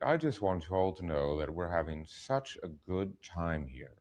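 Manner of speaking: lightly voiced executive; a hint of a smug studio boss; studio executive impression. Actor showing the director his studio executive impression. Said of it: "I could do a good impression of".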